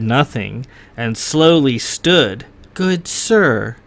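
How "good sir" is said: a cool, lightly voiced noblewoman; lady's measured reply. A narrator's reading. Slighted lady addressing the young lord, cool and measured. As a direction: answer slowly and coolly. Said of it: "she said after a lengthy pause".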